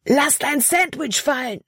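high urgent shouted warning; urgent yell. A narrator's reading. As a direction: yell at her to drop it now. Caleb yells warning near bear.

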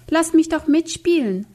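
high pleading call after the others; a lightly voiced girl calling out to be let in; calling after them. A narrator's reading. Left-out girl calling after the other kids, pleading. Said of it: "rief sie ihnen nach".

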